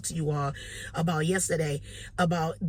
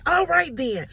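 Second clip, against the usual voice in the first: higher, louder all right then; surprised brisk okay; 9 semitones higher, 5 dB louder, slower than usual. Retold or imitated. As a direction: sign off a bit thrown. Caller replies, then hangs up.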